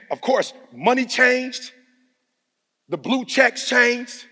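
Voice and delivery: slow emphasis. Real, not acted.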